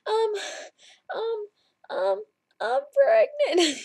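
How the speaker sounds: slow, laughing through the news; hesitate, then laugh it out; nervous laughing confession. Retold or imitated. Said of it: "And I was like".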